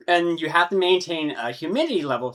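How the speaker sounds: hiccups breaking into the words; talking through hiccups and burps; hiccuping. Real, not acted. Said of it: "hiccuping, burping".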